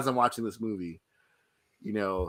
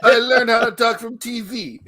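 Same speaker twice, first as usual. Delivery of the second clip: laughing; 11 semitones higher, 9 dB louder than usual. Real, not acted. Laughing joke about accent.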